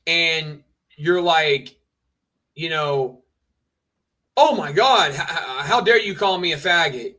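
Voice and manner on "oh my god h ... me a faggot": mock offended. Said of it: "you get all butthurt about it".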